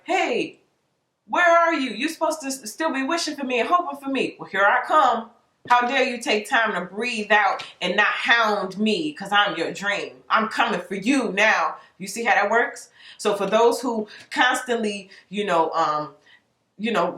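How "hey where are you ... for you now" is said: the dream energy calling out. Pretend. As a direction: play the dream scolding you for letting go, pitched up. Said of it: "that energy was like".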